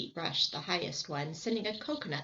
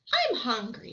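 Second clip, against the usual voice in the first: higher, louder complaint; hungry whine; 6 semitones higher, 6 dB louder than usual. Acted. Tubby Ted to the others, whiny. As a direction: whine about food. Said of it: "said Tubby Ted".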